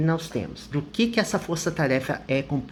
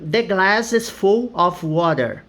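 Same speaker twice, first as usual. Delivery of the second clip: slow model sentence; 3 semitones higher, 4 dB louder than usual. Shown as a demonstration. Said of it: "eu falo full".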